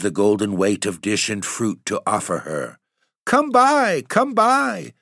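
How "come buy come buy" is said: very high, shrill goblin hawking, falling at the end; goblin cry. Acted. Goblins calling to the maids to buy fruit, shrill high cry. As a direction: screech it like a goblin peddler luring buyers. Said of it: "was still their cry".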